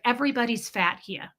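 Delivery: imitated New York woman; lightly put-on New York accent, dropped R's. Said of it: "she sounded like my Russian doctor".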